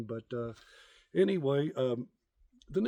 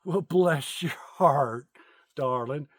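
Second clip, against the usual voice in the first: lightly voiced old Southern lady, very slow; 4 dB louder, much slower than usual. Old lady blessing him on the street, slow mild Southern drawl. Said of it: "Southern lady, and she goes".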